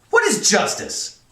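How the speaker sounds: high, loud, drawn-out demand; astounded. A narrator's reading. Colonel challenging cadet about justice, astounded. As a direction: throw the word back incredulously. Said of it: "The colonel was astounded".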